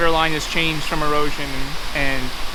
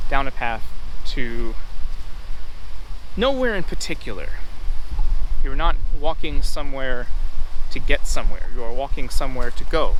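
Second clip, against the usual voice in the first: raised voice over the wind; shouting over wind; 5 dB louder than usual. Real, not acted. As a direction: project over the wind noise.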